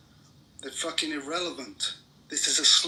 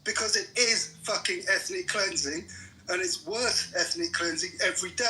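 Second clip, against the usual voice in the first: angry rebuttal; 4 semitones higher than usual. Real, not acted. Angry rebuttal in a heated argument.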